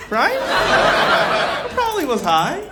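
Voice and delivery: high, slow; dawning dazed voice; groggy realization. Retold or imitated.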